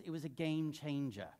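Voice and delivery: imitating a pastor's South African accent. Pastor recalls a colleague's verdict, in a South African accent. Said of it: "he's got this great South African accent".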